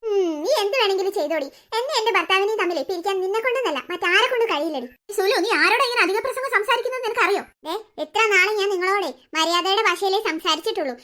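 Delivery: defiant Sulu. Acted. Sulu threatens Sumi. (സുമിയോട് ഭീഷണിപ്പെടുത്തുന്ന Sulu)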